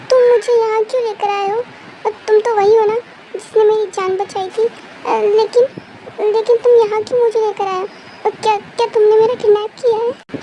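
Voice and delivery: put-on distressed girl with stumbling questions; tearful confused girl. Waking girl questions her rescuer, tearful and confused. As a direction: question him haltingly, on the verge of tears. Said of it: "रो मत".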